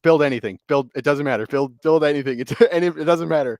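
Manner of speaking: imitated panic. Imitating friend urging his teammate to build, panicking. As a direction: mimic a teammate in a mild panic. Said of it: "Cade is panicking".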